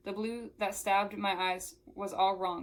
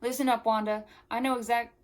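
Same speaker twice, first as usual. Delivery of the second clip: louder, higher southern accent; 3 semitones higher, 7 dB louder than usual. Shown as a demonstration. Reader tries Melanie's lines to Wanda, southern accent. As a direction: put on a southern accent and call it out. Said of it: "should I use the southern accent".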